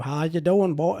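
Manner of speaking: mock Texas twang; put-on Texas Southern accent; stereotype Southern accent. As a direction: exaggerate a stereotyped Southern greeting. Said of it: "with the crazy stereotype".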